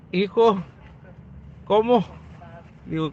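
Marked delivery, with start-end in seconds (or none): 0.1-2.0 a touch of startled surprise, higher and louder; a father's astonished greeting on finding his son; surprised father. Retold or imitated. Father meeting his son on the night bus, surprised.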